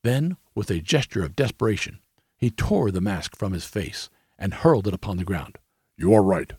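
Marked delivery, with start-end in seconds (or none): 6.0-6.5 loud desperate outburst; cried out. A narrator's reading. King tearing off his mask before Holmes, loud cry. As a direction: cry it out, unmasking. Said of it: "he cried".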